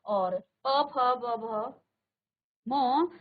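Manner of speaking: प, फ, ब, भ, म closed with both lips; teacher showing the labial row; lip sound demo. Shown as a demonstration. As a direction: press the lips for प फ ब भ म. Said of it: "यहाँ होठों से".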